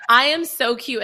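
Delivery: mock-outraged insistence; emphasize it like an affronted diva; indignant boast. Retelling her indignation at being ignored.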